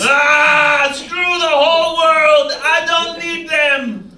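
slow, dragged-out mild yell. Acted. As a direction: rant at the world, slowly. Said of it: "He yells".

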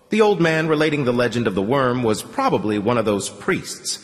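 ordinary delivery, nothing marked

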